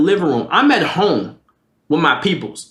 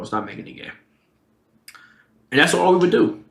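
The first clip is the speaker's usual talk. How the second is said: ordinary delivery, nothing marked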